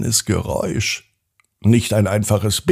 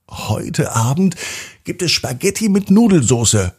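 higher-pitched, firm announcement; energetically voiced determined girl; energetic and convinced; 7 semitones higher than usual. A narrator's reading. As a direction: declare it with full conviction. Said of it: "sagt Maria ganz energisch und überzeugt".

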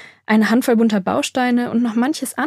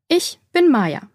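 "Ich bin Maya" slow and higher, words set apart; slow teaching; 6 semitones higher, slower than usual. A narrator's reading. Maya introduces herself to Borg, "Ich bin Maya" slowly.

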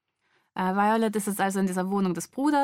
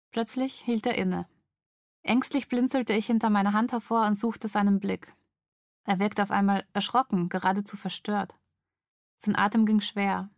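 measured, dramatic audiobook reading; story narration. A narrator's reading. Woman woken by intruder at night, story narration. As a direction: read a suspense scene with pauses between sentences. Reads novel scene aloud.

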